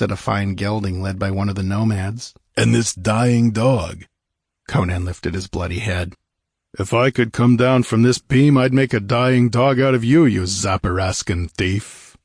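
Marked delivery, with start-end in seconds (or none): 2.6-4.0 slow, contemptuous sneer. Acted. Rider sneers at Conan. 6.8-12.2 hoarse, louder threat through pain; rasping. Acted. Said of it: "he rasped through blackened lips".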